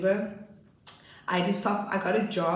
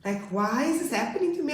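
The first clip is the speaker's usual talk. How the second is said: distressed lament; 3 semitones higher than usual. Retold or imitated. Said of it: "I cried even more then. I was like".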